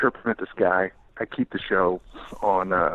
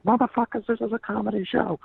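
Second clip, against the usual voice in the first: yelling at the crowd; 14 semitones higher than usual. Retold or imitated. Host yelling at rowdy crowd.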